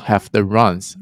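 slow "have the runs"; teacher modelling "have the runs"; slow phrase demo. Shown as a demonstration. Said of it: "你会说".

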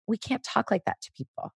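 soft, even correction; without yelling. Acted. Parent setting a boundary for a rude child, calm. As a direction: correct the child gently but firmly. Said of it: "you don't need to yell at them".

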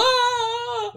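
high-pitched mock cracking-up sound; imitated cackle. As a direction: imitate him bursting into a high laugh. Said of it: "he just starts cracking up".

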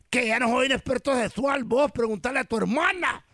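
mildly annoyed Salvadoran character; Salvadoran accent. Acted. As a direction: protest lightly in a Salvadoran accent. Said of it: "¿De dónde es ese acento?".

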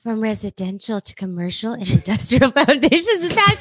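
reading through giggles; can't keep a straight face; laughing while reading. Real, not acted.

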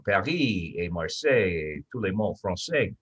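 Paris et Marseille in a French accent. Shown as a demonstration. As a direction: speak the French words the French way. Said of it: "when you know how to speak it".

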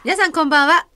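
greeting that flips up and cracks; voice cracking. Real, not acted. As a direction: let the voice break upward on the hello. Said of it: "声がひっくり返ってますよ。".

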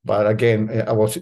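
ordinary talk

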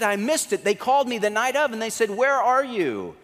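high-pitched, agitated retelling; acted worry. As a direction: imitate a friend recounting his blunder in distress. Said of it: "so worried and so bothered".

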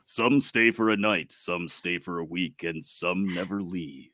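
lightly put-on radio announcer read; measured, dramatic movie-synopsis read in radio voice. Reading the Barbarian synopsis to co-hosts, radio voice. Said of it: "radio voice ready here".

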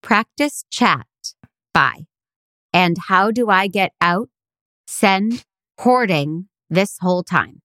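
slow, dramatic reading of mom's text. Retold or imitated. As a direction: read it like a dramatic poem. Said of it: "another dramatic reading".

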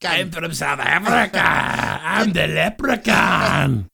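put-on drawn-out, botched South African accent; bad South African accent. Host clowning as a white South African, bad South African accent. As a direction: badly fake a South African, stretching the vowels. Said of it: "I can't even speak like that".

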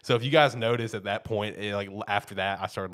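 ordinary delivery

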